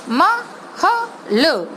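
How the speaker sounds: each letter sounded out separately; letters one by one. Shown as a demonstration. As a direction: split the word into its letters. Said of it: "अब तीनों को मिलाएंगे". (म, ह, ल अलग-अलग धीरे बोलना)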